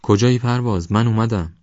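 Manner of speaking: high, loud call into the fog; searching call, a bit tired; calling again. Acted. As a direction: shout to find him in the mist. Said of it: "باز صدا زد".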